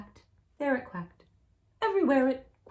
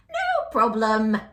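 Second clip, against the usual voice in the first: witch voice; 6 dB louder than usual. Acted. Witch checks ingredient list.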